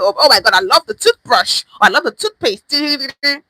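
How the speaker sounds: mock gushing. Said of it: "because you like to".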